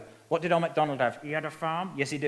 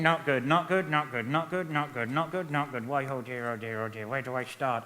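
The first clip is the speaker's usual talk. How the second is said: lightly voiced old man, lower and woeful; grumbling old man puppet; 4 semitones lower than usual.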